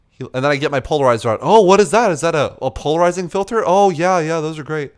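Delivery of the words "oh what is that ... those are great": high, eager mock voice of a pushy older guy; Ernie's eager voice. Mocking the old photographer as he asks to be added, high and eager. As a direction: play him overly keen to connect.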